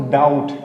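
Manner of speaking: डाउट said as "dout" with no b; silent b. Shown as a demonstration. Teacher modelling the word for children, clearly articulated. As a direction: say डाउट with the b left out entirely. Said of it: "तो क्या पढ़ेंगे इसको".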